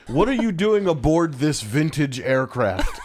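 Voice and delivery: quoting the stilted line while laughing; amused retelling of a clunky movie line; laughing through the quote. Retold or imitated. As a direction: giggle your way through the silly line. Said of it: "He goes".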